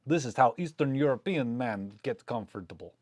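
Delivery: lightly put-on Russian accent; a hint of Russian accent as a joke; mock Russian accent. Narrating squat photo in a light Russian accent. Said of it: "my best Russian impersonation".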